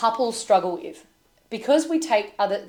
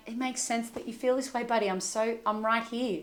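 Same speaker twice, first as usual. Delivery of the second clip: put-on much softer, gentle reassurance to a child; soft soothing; 6 dB quieter than usual. Parent comforting upset little buddy, soft and gentle. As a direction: murmur it softly, calming a little boy.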